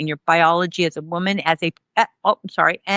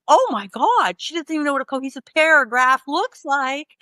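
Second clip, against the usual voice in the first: high-pitched retold dismay; mock appalled; 6 semitones higher than usual. Assessors reacting to her rambling paragraph, mock-appalled. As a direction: exclaim in mock horror at the incompetence.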